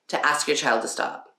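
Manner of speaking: usual speaking voice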